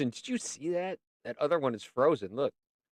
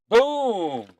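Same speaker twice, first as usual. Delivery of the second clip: loud, high, falling boom; mock explosion shout; 9 semitones higher, 7 dB louder than usual. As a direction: boom it out like a blast.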